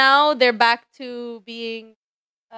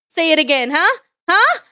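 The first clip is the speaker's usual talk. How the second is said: daring huh, rising loud; playful taunt; 5 semitones higher, 4 dB louder than usual. Pretend. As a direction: push them to repeat it.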